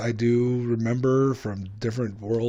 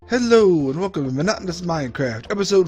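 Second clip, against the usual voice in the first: YouTube intro. Acted. Clip montage of episode intros.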